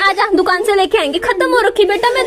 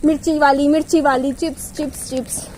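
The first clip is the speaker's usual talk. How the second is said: mimicking whining child; 3 semitones lower than usual. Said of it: "फिर वही".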